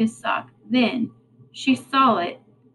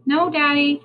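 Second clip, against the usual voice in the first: calling back; 5 semitones higher than usual. Acted. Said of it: "she called back".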